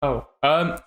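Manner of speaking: frightened man beckoning the dwarf away from the others; nervous stranger. Acted. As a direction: stutter then urge him closer.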